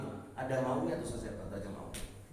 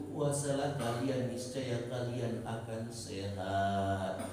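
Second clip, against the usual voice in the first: mock wife's prayer. Preacher mimics wife praying about stingy husband, sing-song. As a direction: pray like a wife grumbling to God. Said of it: "saya punya suami kok pelit".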